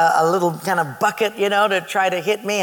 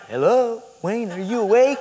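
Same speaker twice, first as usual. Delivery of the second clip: higher, tentative call through a door; pestering roommate; 3 semitones higher than usual. Retold or imitated. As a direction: imitate a friend checking who's awake. Mike voiced knocking at midnight.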